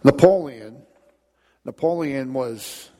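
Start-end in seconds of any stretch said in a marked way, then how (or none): 0.0-0.8 loud call. Acted. Announcing the story's hero.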